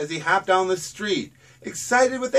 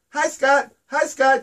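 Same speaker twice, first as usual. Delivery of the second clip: high, loud happy crow cries of Hi, Scott; excited crow calls; 8 semitones higher, 4 dB louder than usual. Acted. Lost crow spots his friend Scott, calling out high and loud. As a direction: call out with relief and joy. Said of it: "Joe called again and again".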